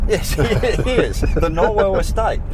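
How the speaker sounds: put-on high, slow English lord accent through a laugh; posh English accent. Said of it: "I should put on my English accent".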